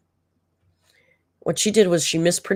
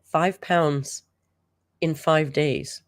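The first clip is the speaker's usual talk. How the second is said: mocking slow echo; much slower than usual. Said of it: "I was down five pounds".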